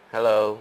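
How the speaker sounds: HELLO as an even "heh-loh"; Vietnamese-style hello. Shown as a demonstration. Showing how learners usually say it, Vietnamese-style hello. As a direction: say HELLO with a full first vowel, no drop. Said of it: "I don't think it's the right way to say hello".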